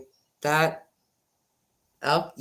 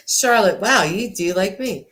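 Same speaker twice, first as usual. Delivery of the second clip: laughing; 3 semitones higher than usual. Real, not acted. Laughing at viewer's donation.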